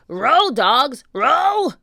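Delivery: high, loud command; pirate bellow. Acted. Captain bellows at the pirates, loud. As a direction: drive the rowers.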